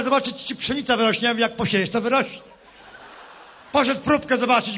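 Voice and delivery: lightly voiced rustic politician, rally style; a farmer-politician addressing the crowd, hammy; Lepper impression. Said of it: "jestem lepier". (parodia Leppera, lekko zagrana)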